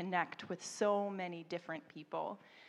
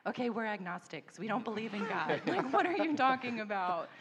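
laughing, rising into a louder question; amused disbelief; 3 semitones higher, 5 dB louder than usual. Retold or imitated. Agnostic teachers puzzled by Rebecca's answer, laughing. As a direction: scoff with a laugh. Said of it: "And they're kinda like".

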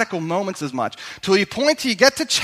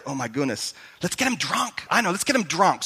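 freaking out; 2 semitones lower, 6 dB quieter than usual. Retold or imitated. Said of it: "David freaks out and he's like".

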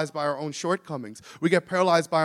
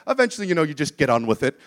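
badly attempted accent of the quoted woman; lightly imitated accent, hammed a little; Jill Blackmore; faster than usual. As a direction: have a clumsy go at someone else's accent. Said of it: "My terrible Jill Blackmore accent".

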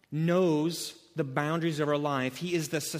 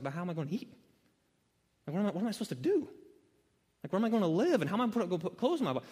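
worried questioning; 3 semitones higher, much faster than usual. Retold or imitated. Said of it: "the question sort of comes like".

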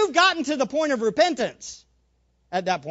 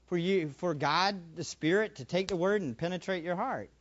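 usual speaking voice

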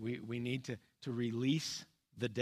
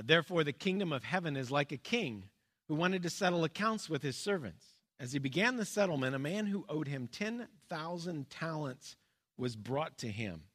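raised voice for the Bible reading; scripture reading. Acted. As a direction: read the parable out to the congregation. Reads the parable aloud.

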